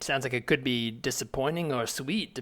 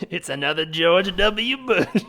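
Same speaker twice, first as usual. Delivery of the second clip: laughing reveal; 5 semitones higher, 7 dB louder than usual. Real, not acted.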